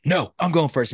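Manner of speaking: put-on pushy little kid insisting; whiny kid. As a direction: blurt it like a bratty kid. Son racing sister to shower.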